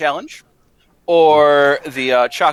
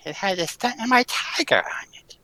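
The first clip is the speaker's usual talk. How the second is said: whisper; 9 semitones higher, 6 dB quieter than usual. Acted. Villain confessing.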